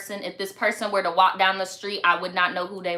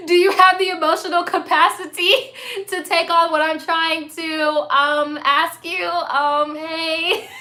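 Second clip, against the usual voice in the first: high, halting, over-careful request; mock-considerate viewer; 6 semitones higher, 4 dB louder than usual. Viewer asking host for emotional capacity, mock-hesitant. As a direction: tiptoe into the question with drawn-out ums.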